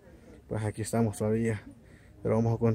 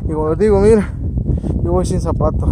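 loud over the wind; 7 semitones higher, 9 dB louder than usual. Real, not acted. Hay mucho viento.

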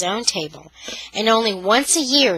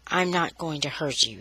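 softer, lower, calmed; more quietly; 4 semitones lower, 7 dB quieter than usual. Acted. Brother calming himself before his sister, quietly. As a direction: bring it down gently. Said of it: "he said more quietly".

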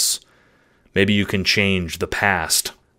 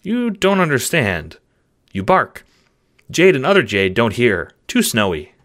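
puzzled pet in short, halting phrases; confused simple dog; 4 semitones higher, 3 dB louder than usual. Acted. Dog answering a mysterious voice, mildly baffled. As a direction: think it through like a baffled dog. Dog does not understand.

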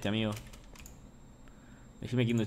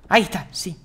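higher, louder, slow coaxing; 9 semitones higher, 8 dB louder, slower than usual. Real, not acted. Streamer coaxes a villager to stay, high and drawn out. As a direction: coo at the villager to stay put.

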